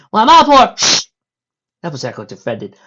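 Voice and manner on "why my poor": dramatic lament. Acted. Applejack dramatic complaint.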